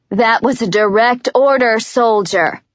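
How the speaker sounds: a lightly voiced commander's order; a touch of a curt command; barked order. Warner ordering Jenkins, lightly voiced curt command. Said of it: "Warner barks".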